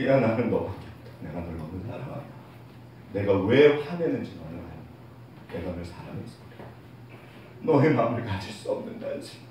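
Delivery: low, gentle fatherly plea, dropping very soft; God's tender voice. Acted. God telling His child of His love, tender. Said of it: "어느 날 제가 성경을 통해서 하나님을 만났을".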